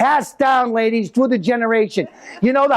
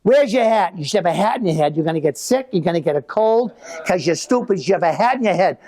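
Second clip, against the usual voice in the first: a touch of mock yell from the porch; mother yelling down. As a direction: call down at him like a scolding mother. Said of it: "yell down".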